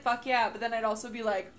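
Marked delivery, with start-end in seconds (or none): 0.0-0.5 excited. Retold or imitated. Imagined reaction to job offer.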